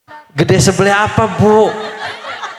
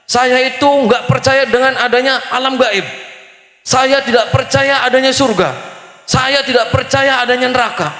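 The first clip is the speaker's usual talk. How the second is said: mildly heated, higher-pitched mock tirade; retold angry rant; 4 semitones higher than usual. Angry father arguing with the preacher, retold as a mild rant. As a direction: imitate an indignant man declaring his disbelief. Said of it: "Ngamuk, Bu, ngamuk-ngamuk ke saya".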